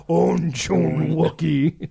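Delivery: slow, drawn-out alien gibberish. Retold or imitated. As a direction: stretch it like a Wookie.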